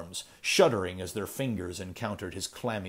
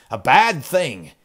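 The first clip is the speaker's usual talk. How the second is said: put-on slower, louder, strained old man; cracked old miser repeat; 5 semitones higher, 10 dB louder than usual. Ezra repeating himself to Kane, slow and strained. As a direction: drag out the repeat in fear.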